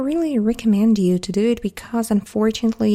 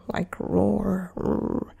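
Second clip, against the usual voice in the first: hushed mock bear roar; soft roar; 6 dB quieter, much slower than usual. Shown as a demonstration. Teacher explaining зарычал, a soft mock roar. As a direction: breathe out a little roar. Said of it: "Зарычал".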